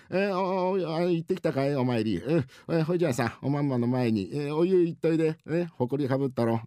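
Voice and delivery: rakugo wife. Acted. Wife sends husband to the bath, brisk. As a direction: greet him like a brisk housewife.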